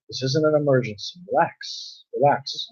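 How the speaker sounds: softened, reassuring word to oneself; lightly acted calming voice; soft self-talk. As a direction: talk your own brain down quietly. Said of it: "Speaking softly helps put that in".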